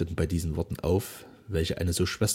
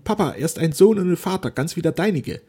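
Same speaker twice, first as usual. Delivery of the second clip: higher, halting, anxious daughter; faltering; 9 semitones higher, 6 dB louder than usual. A narrator's reading. Frightened daughter pleading with her silent father, haltingly. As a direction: stumble through the plea in fear. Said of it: "sie sagte stockend".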